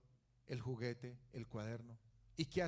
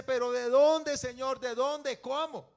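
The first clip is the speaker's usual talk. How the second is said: anxious questioning; 8 semitones higher, 12 dB louder, slower than usual. Retold or imitated. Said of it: "Uno a veces dice".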